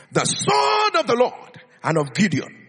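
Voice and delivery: shouted war cry; rally the troops with a shout; battle cry. Acted. Gideon calling his men to battle, shouting.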